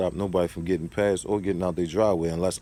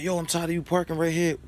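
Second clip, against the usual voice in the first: higher, put-on voice for the complaining neighbor; the neighbor griping about his parking, in a higher mimicking voice; mimicked neighbor; 10 semitones higher than usual. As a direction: play the fed-up neighbor. Voicing annoyed neighbor.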